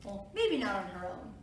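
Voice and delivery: ordinary delivery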